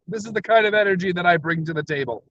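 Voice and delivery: fast, bright energetic delivery; quick, pumped-up show-host line. Shown as a demonstration. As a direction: show off the energy you bring.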